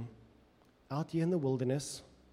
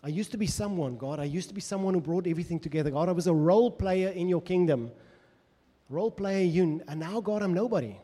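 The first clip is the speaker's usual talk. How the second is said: impassioned plea as David to God; voicing David's lament; 5 dB louder than usual. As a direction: cry out to God as the fallen king.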